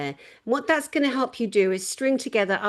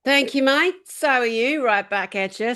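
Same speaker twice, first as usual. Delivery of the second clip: mock Australian accent; 2 semitones higher, 3 dB louder than usual. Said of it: "Sorry for mocking the Australian accent".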